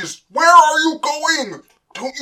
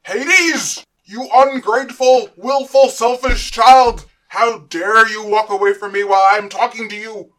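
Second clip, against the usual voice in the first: furious high, very loud tirade; screaming; 8 semitones higher, 11 dB louder than usual. Acted. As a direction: scream it like an enraged tyrant father. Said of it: "Then Kronos began screaming".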